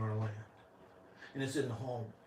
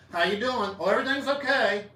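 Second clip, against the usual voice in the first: higher, fast sing-song brush-off; mock chirpy reply; 8 semitones higher, 6 dB louder than usual. Preacher mocking small talk, fast chirpy cheer. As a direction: rattle it off like a programmed answer.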